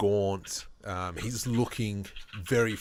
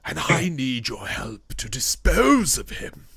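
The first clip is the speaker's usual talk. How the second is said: put-on slow, raised voice of a troubled old man; lightly voiced worried old man; grave old summoner; 5 semitones higher than usual. GM voices NPC's request.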